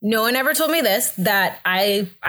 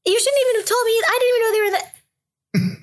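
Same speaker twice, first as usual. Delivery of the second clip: very high, squeezed voice; imitating talking through a contraction; strained by contraction. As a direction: squeak the words out through mock pain. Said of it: "another contraction happens and I'm not talking anymore".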